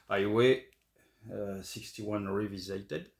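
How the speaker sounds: English title in a real French accent. Real, not acted. Vlogger naming an album to viewers, French-accented English. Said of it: "je le fais avec mon accent et puis mon anglais qui est très mauvais".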